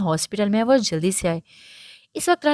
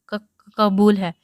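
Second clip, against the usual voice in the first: halting, slow, tearful stammer; sobbing; 5 dB louder, much slower than usual. A narrator's reading. Bride at her nikah, sobbing her consent. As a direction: choke the words out between sobs. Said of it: "Iram نے روتے سسکتے ایک آہ بھرتے کہا".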